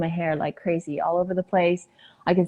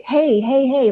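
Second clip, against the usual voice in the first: higher, louder urgent calling; insistent, raised-pitch hailing; trying to get attention; 7 semitones higher, 5 dB louder, slower than usual. Retold or imitated. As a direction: call out repeatedly for someone's attention. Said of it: "just try to get her attention".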